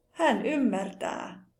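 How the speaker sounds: "ymmärtää" with the final ää held long. Shown as a demonstration. Teacher showing learners a verb form, long final Ä in "ymmärtää". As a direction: stretch the ää ending of "ymmärtää". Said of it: "Pitkä Ää".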